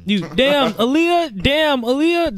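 high-pitched exclamation at the dog; exasperated mock outcry. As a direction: cry out the name in mock dismay. Retells reacting to a farting dog.

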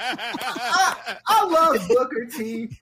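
words breaking up with laughter; can't stop laughing while speaking. Real, not acted. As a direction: talk through real laughter. Cracking up at the comments.

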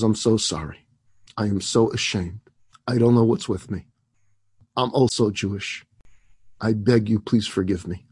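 low, subdued apology with pauses; contrite apology. A narrator's reading. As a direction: beg forgiveness, voice dropped low. Employee apologizes, ashamed, begging forgiveness.

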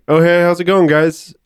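mock-friendly, high and bright hello; overly friendly greeting. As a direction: put on a too-nice greeting to strangers. Acting friendly greeting to seat-takers.

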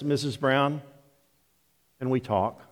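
hushed doctor's waiting-room voice; surgeon addressing family. Retold or imitated. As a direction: break it to them quietly, voice dropped. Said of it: "when the surgeon steps".

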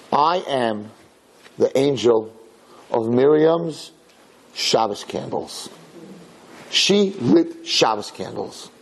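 slow, measured declaration with long pauses; solemn angel. Retold or imitated. Angel testifies for Mary in heaven, solemn and slow. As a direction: announce it word by word, solemnly.

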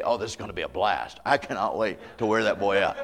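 mock-cheerful, laughing; gleeful, wrong spirit. A parent looking forward to the spanking, mock glee. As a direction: relish it like a treat, half-laughing. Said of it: "You don't just say".

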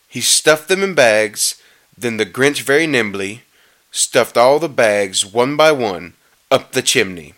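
measured rhyming read with drawn-out key words; storybook narration. A narrator's reading. Reader telling how the Grinch stole presents, storybook narration. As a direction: read the verse aloud, lingering on the stresses.

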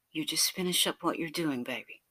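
tender, fading to near hush; sweetly telling a lover to finish up; sweet beautiful voice. Acted. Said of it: "in that sweet, beautiful voice of yours".

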